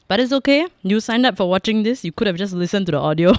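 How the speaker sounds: playfully telling viewers off; mock scolding. Real, not acted. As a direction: scold the audience in jest. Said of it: "Suddenly scold my viewers".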